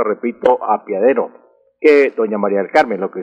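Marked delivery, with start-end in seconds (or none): 0.6-1.3 a-pia-de-ro, -pia- as one syllable; mispronounced apiadero. Shown as a demonstration. Language expert repeating the wrong form, "apiadero" mispronounced with I. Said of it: "mal pronunciada".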